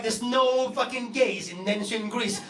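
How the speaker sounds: slow mocking repeat of dad's denial; sarcastic echo, lightly voiced. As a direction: parrot him back with scorn. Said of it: "And I was like".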